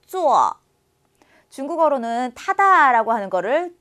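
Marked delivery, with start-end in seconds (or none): 0.1-0.5 坐 said as a clean falling zuò; 坐 spoken slowly for students to copy; modeled zuò. Shown as a demonstration. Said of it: "한 번 더".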